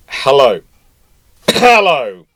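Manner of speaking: a mock cough then a pointed hello; frigate greeting. Frigate voiced turning up.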